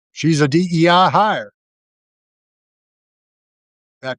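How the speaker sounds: mocking a Southern MAGA voice in a bad Southern accent. Mocking MAGA Republicans on Kamala Harris, in a bad Southern accent. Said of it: "my poor accent of those that live below the Mason-Dixon line".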